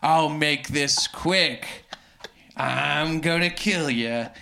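slow, lightly acted villain threat; lightly voiced menacing Count. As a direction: draw the threat out slowly.

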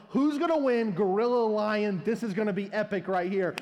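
loud, eager crowd chatter; excited crowd. Retold or imitated. Parents with phones cheering the fight, excited and loud. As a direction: hype up the fight like thrilled spectators.

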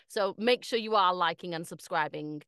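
confident presenter plug; polished sign-off. Shown as a demonstration. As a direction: sell it like a pro host. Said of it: "That's how you do it, Michael".

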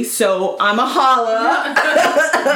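very slow teasing so I'm a holla; flirty drawl. Pretend. Pretend message to a crush, slow teasing drawl. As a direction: stretch it out, playfully flirty. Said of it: "I'm like".

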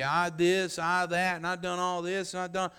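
whining like a baby, mock self-pity; mildly whiny complaining; whiny man child. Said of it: "Whining like a baby".

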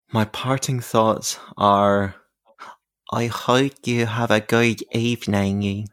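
slow Becky voice, pop singer affect. Shown as a demonstration. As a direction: drawl it in the Becky voice. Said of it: "my full Becky voice for you".

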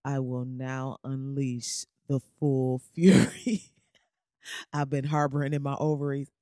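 slow, hammed-up dramatic pronouncement with a laugh in it; mock grand declaration. Woman finally unleashing pent-up anger on her man, mock-grandly. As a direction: declare it like a villain unleashing wrath, slowly. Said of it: "and you like".

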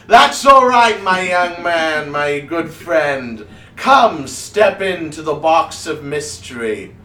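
high, booming, drawn-out stage voice; overbearing wizard showman. Acted. Wizard ushering the reluctant gnome into the box, booming. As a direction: sweep the protest aside loudly and grandly.

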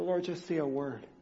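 kneeling by the bed, a quiet plea; hushed plea. Retold or imitated. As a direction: ask for one word, barely aloud. Pleading prayer by the bed.

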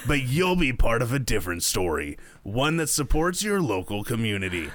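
smooth radio ad announcer; movie trailer voice for an ad read; Will Arnett radio voice. Acted. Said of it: "that was your best radio voice".

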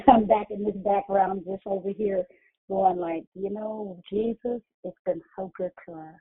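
muffled, like through a wall. Real, not acted. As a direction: voice muffled by a bad phone. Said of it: "adjust your phone 'cause you sound muffled".

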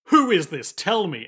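mildly sharp demand, imitated; scolding. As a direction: scold an unknown caller, lightly acted. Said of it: "scolds this girl and says".

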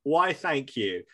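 polite, deadpan mock caller; bland voice. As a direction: say the threat like ordering a pizza. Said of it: "being like".

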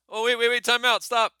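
high, loud, urgent backing down; imitated panicked plea. Storyteller as the driver about to be hit, loud panicky plea. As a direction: call a frantic halt, voice shooting up. Retells attacker begging to halt.

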